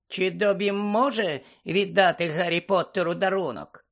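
high-pitched, timid elf voice; hesitant elf question. A narrator's reading. House-elf asking Harry to accept a gift, unsure. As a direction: ask permission in a small squeaky voice. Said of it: "невпевнено запитав він".

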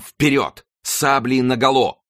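high shouted orders, last one drawn out; carried away, call them to charge; rousing battle cry. A narrator's reading. The king cries orders to troops, high rousing shout. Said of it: "крикнул тоже король, опьянённый этим видом".

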